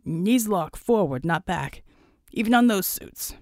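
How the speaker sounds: lightly voiced squad leader; team lead Flack. Flack introduces the dog team.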